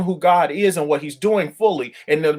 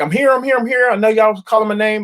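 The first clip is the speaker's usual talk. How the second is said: high, breathless I'm here; waving down the gate staff; frantic calling out; 6 semitones higher, 3 dB louder, faster than usual. Retold or imitated. Traveler at the gate, frantically calling out to staff.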